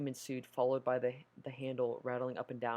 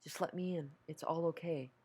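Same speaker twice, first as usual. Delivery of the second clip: higher, honeyed plea to open the door; coaxing mother; 4 semitones higher than usual. Acted. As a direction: lure her in sweetly, like a mom. Mother coaxes again.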